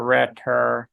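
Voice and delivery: "Loretta" copied from the cartoon character's delivery; Cleveland's pronunciation. Shown as a demonstration. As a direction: have a go at his way of saying "Loretta". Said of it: "He says Loretta".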